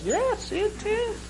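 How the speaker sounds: high, slow mock brogue; mock Irish brogue. Irishman insisting it's true, slow high mock Irish brogue. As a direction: drag it out in a put-on Irish accent. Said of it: "my Irish brogue sounds a lot like Jamaican".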